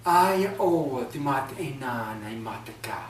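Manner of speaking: whispered slow incantation; whispered spell. Acted. Ogress whispers her sleeping spell into the house. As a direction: breathe the spell out slowly. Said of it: "when she said this chant".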